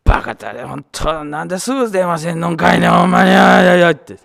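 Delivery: loud, high, rapid motherly scolding; mother's scolding. Retold or imitated. Mother scolding her son on the phone for not calling, loud and fast. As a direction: tear into him like a worried mom. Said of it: "the scolding voice of mom".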